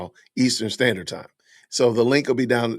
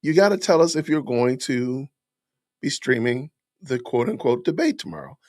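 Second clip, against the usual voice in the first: mock viewer voice; 3 semitones higher than usual. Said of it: "you're probably saying".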